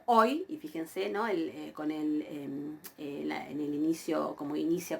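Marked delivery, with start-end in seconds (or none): 0.0-0.4 oi as one gliding syllable; pronunciación modelo. Shown as a demonstration. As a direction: model oi, stressed O sliding into i. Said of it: "observan ahí cómo yo pronuncio". (oi, diptongo todo junto)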